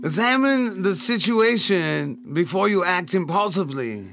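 slow, drawn-out pronouncement; measured, stretched-out proclamation; formal fortune reading. Pretend. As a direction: read it out like solemn advice. Reads out the fortune, then repeats it.

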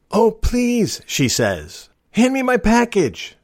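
high, slow sweet pleading; the rude woman now begging for her package; suddenly all nice. Retold or imitated. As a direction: play it sugary sweet. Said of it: "she's all nice".

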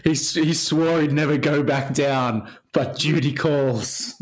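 hint of a movie-trailer announcer, slightly drawn out at the end; lightly hammed-up film tagline; mock trailer voiceover. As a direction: pitch a made-up sequel like a trailer tagline. Mock film tagline for imagined sequel.

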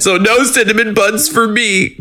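high, whiny mock sorrow; mock lament. Podcaster whining about missing cinnamon buns, high mock sadness. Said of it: "mock lament".

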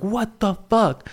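slow, high mock bewilderment; drawn-out disbelief. Retells own bewilderment.

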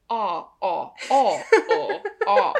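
sounding out open ah vowels for speech homework; vowel drill. Shown as a demonstration. Speech student practising vowels, repeated ah sounds. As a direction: run through bare ah sounds like a speech student. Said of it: "making different vowel sounds".

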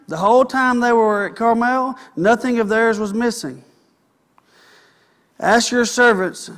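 preacher reading David's message aloud to his flock; scripture reading. Acted. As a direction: read it out like a herald. Reads scripture aloud to congregation.

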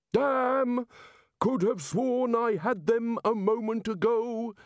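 booming, deliberate military bellow; bulldog bellow. A narrator's reading. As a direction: bellow each word like a bulldog. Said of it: "he bellowed, enunciating each word with a sort of bulldog carefulness".

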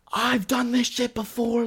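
high, drawn-out mock scream; retold screaming. Woman screaming at the restaurant manager, slow mock scream. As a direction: imitate her screaming, stretching the words. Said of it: "she starts screaming".

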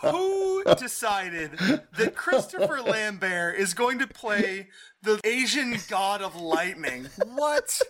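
drawn-out, incredulous question through laughter; can't believe this casting, laughing; laughing incredulity. Real, not acted. Podcaster mocks a film's casting of lightning god, laughing in disbelief.

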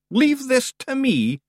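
high, wee Scottish Feegle voice; gruff little Scottish pixie; Scottish accent. Acted.

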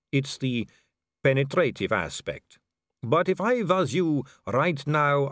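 a vampire noblewoman purring at a dangling man; suave vampire lady. Acted.

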